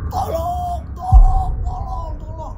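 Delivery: very high shrieking cry for help; screaming for help. Acted. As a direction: scream it out, bitten and desperate. Bitten father screams for help. (teriak minta tolong melengking)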